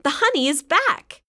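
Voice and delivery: high, pleased announcement; smiling. A narrator's reading. Bob greeting the children at his stand, smiling. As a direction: Bob beams as he tells the good news. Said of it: "smiled Bob".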